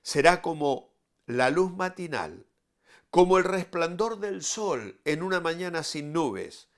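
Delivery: scripture reading. Acted. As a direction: proclaim the verses with solemn force. Reads scripture aloud to listeners.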